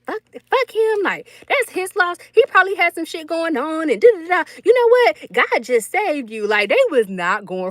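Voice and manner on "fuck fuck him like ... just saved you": high, indignant family voice; high mock-outraged relatives defending her; granny and daddy. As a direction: mimic the family brushing him off. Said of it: "They was like".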